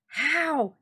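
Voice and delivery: sharp high surprised how. A narrator's reading. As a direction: Fortunato startled by the wine news, loud surprise. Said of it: "he said".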